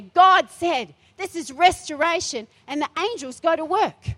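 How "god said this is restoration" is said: feisty. Shown as a demonstration. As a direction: proclaim it with fight, God said. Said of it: "You've got to get feisty and say".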